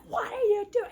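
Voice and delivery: retold indignant yell; mock yell. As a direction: yell it half-laughing, imitating alarm. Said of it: "Someone came and yelled at him".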